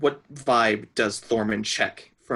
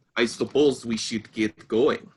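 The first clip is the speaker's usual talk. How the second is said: put-on Russian accent. Voicing a character after being told to do Russian: Russian accent as Colossus. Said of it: "that's just my Colossus impression".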